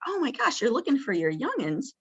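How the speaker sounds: "Oh my gosh" jumps high, then eager; high, eager joining-in for a resident; engaged surprise. Shown as a demonstration. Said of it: "jump in with her and say".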